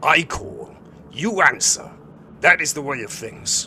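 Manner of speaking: furious yelling. The vicar in the story yells, visibly incensed: incensed yelling. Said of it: "The vicar yells, visibly incensed".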